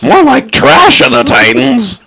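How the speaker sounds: high, slow, laughing jeer; laughing pun. Real, not acted. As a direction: crack the pun through laughter. Mocking pun on movie title.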